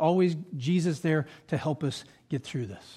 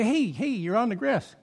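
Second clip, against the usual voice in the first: mildly raised, higher-pitched protest; calling out; 4 semitones higher than usual. Retold or imitated. Homeowner going out to the delivery driver, calling out in protest. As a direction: call out to warn someone off.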